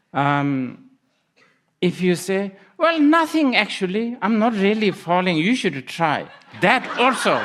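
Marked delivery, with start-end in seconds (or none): 2.8-6.3 high, loud call back while falling; pitched up and loud, easing down towards the end; acted casual reply. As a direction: shout back as if nothing is wrong. Falling person calls back to friend.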